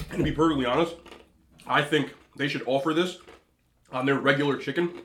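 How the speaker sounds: talking around an ice cube; words blurred by a chunk of ice; ice in mouth. Real, not acted. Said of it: "I'm chewing an ice cube".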